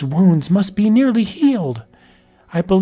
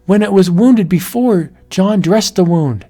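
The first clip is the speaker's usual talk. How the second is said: rising dread; 6 semitones higher than usual. Acted. Wife alone, wolf approaching.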